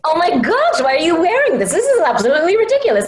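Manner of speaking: high, flustered cartoon girl; anime girl voice. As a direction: squeal it, scandalized and fast. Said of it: "Can you provide us with the voices of your beloved characters?".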